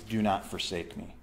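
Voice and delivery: low, softened plea to God; humble plea. Acted. Preacher voices the psalmist after "I can't do this", humbly pleading. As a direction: let the begging drop low and soft. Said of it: "Do you see the humility in that?".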